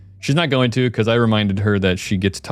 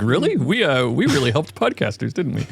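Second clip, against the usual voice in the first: smug retelling; 5 semitones higher than usual. Retold or imitated. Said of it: "Scott's like".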